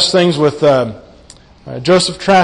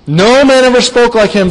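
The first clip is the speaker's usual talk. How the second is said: "No man ever spoke like him" higher and louder, stress on "man"; bold proclamation; 6 semitones higher, 4 dB louder than usual. Shown as a demonstration. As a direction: ring out "man" boldly, without fear. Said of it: "With great boldness, without fear".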